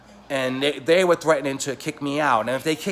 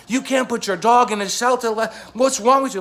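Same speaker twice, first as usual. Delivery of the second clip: loud, higher indignant yell down the phone; retold angry shout; 8 semitones higher, 4 dB louder than usual. Yelling at his friend on the phone, loud furious shout. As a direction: blast him with outrage.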